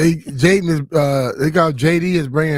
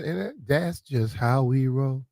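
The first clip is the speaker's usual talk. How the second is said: quoting a player; 2 semitones lower, 5 dB quieter, slower than usual. Retold or imitated. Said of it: "like Russell Wilson White said".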